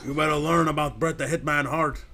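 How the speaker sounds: wrestler's catchphrase promo, lightly voiced; Bret Hart. Demanding they learn about the Hitman, wrestler impersonation. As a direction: boast like a wrestler cutting a promo. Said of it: "my Bret Hart ac-, uh, co-, impersonation".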